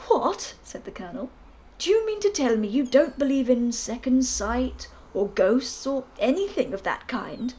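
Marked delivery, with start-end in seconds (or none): 0.1-0.5 loud, high, startled "What?"; startled colonel. Acted. Colonel's outburst. 1.8-7.5 put-on loud, booming old colonel; bluff colonel. Narrator voices the Colonel.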